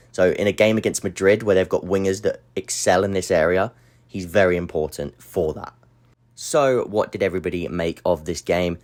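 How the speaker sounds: slightly breathless, catching breath. Real, not acted. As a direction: talk while short of breath from illness. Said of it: "I'm a bit breathless".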